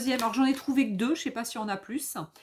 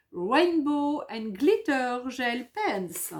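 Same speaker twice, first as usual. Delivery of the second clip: French-accented English; slower than usual. Real, not acted. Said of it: "toujours le même super bel accent English".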